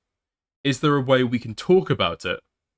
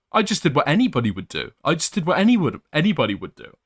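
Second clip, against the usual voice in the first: mock self-righteous tone, a little higher; mocking her; 3 semitones higher than usual. Streamer mocking the ex's excuse, mildly sarcastic. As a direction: sneer her words back. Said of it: "she seems to think that was".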